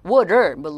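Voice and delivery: "water" as "wa-rer"; American flap T. Shown as a demonstration. Teacher shows American T, "water" as wa-rer. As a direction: tap the t of "water" like r. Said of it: "T 사운드를 R 사운드에서 가깝게".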